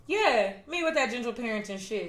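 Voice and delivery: owning it at normal volume; unapologetic retort. Retold or imitated. Daughter answering her teasing parents, matter-of-fact unapologetic retort. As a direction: throw the jab back, claiming it as yours. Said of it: "And I'm like".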